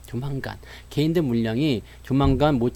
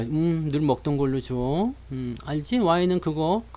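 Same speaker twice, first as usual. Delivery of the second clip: lightly voiced smooth regular customer; suave date; 5 dB quieter, slower than usual. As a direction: order softly, with suave self-assurance. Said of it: "아주 매너 있게 딱 앉아가지고". (살짝 매너 있는 척하는 말투)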